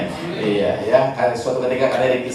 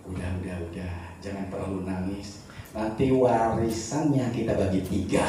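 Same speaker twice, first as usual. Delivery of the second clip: mild hushed aside, much softer; retold whisper; 3 semitones lower, 6 dB quieter than usual. Two women hushing the widow at the wake, soft mock whisper. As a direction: lean in and murmur it low, half-joking. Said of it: "datang berbisik sama dia".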